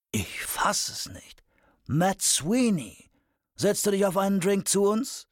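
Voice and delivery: high, drawn-out character voice rising into a call; incredulous Wednesday hailing an acquaintance. Acted. Wednesday invites an acquaintance over for a drink, incredulous hail. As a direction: start slow and whispery, then call out high.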